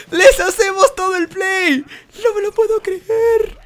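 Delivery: high, excited exclaiming; elated disbelief. Real, not acted. Gamer celebrating a play he can't believe, elated high cries.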